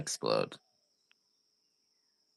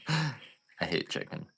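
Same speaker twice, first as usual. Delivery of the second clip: slow, soft, under the breath; slow quiet growl; 3 semitones higher, 11 dB quieter, slower than usual. Shown as a demonstration. Repeating his hatred of chickens to viewers, slow and soft. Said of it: "repeats line in slower quiet take".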